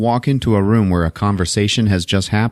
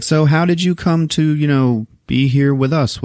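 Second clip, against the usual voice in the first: higher, lightly voiced woman; wary wife; 6 semitones higher than usual. Wife asks the stranger how he came, lightly imitated higher voice. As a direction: politely probe in a raised imitation voice. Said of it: "She's like".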